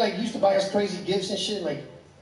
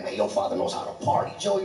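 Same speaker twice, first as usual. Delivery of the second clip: friends' voice; 9 semitones lower than usual. Retold or imitated.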